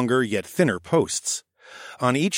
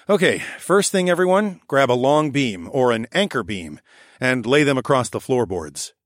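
raccoon architect voice. Acted. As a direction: direct the crew like a brisk little foreman. The speaker voiced as a character.

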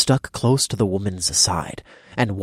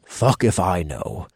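panting. Acted. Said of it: "the kobold panted".

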